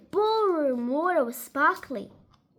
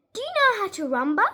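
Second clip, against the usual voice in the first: higher and fast, lightly voiced lady; eager Missus Teaberry; 5 semitones higher, faster than usual. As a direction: rattle off the question, a hint of an excited old lady. Missus Teaberry keeps asking.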